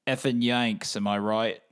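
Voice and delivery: put-on a botched British accent that drifts Australian; failed British accent. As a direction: try a British bloke's accent and miss. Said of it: "that sounded more Australian".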